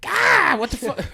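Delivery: sudden high, loud yelp of disbelief; startled outburst. Retold or imitated. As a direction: blurt it out like a stressed teenager caught off guard. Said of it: "being like".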